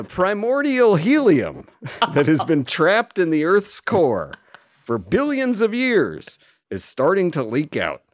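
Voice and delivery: high squeaky helium voice, slowed. Pretend. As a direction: talk like you just sucked a balloon. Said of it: "What, sucking helium?".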